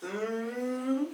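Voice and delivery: soft, rising mock groan; imitated groan. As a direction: imitate a stunned man's faint moan. Shows the immobilised man's only sound.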